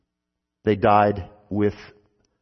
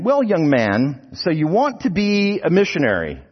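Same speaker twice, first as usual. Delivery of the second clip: louder, higher, measured pomp; examiner's voice; 8 semitones higher, 4 dB louder than usual. Acted. Preacher voices the examining missionary.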